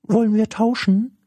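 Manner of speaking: very high, loud, quick squeaky creature voice; high-pitched, eager creature chatter; cheeky little creature. Acted. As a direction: pipe up like an impish little creature.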